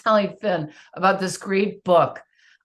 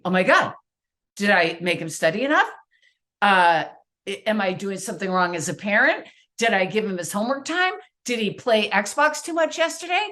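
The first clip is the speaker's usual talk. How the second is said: anxious inner voice; 2 semitones higher than usual. Retold or imitated. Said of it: "In my head, I'm thinking".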